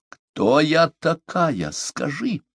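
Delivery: high, slow, choking with rage; choked fury. A narrator's reading. Omaata choked with rage at Parsel. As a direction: squeeze the words out in fury. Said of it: "сдавленным от ярости голосом".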